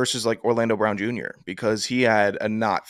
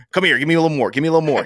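coach barking; 4 semitones higher, 4 dB louder, much faster than usual. Retold or imitated. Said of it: "imitating the Jaguars coach".

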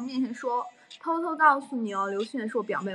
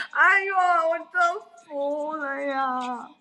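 very slow, higher, half-crying groan; long mortified whine; drawn-out wail; 3 semitones higher, much slower than usual. Real, not acted. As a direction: drag it out in mortified despair. Groaning at her own embarrassment.

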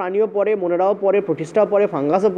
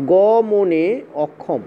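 dictating slowly; 2 semitones lower, much slower than usual. Shown as a demonstration. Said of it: "লিখে দেবো".

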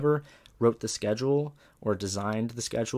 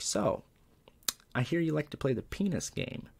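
lightly voiced principal, pitched high; hint of coy interrogator; 7 semitones higher than usual. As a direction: imitate a principal slyly opening questioning. Voicing principal leaning forward.

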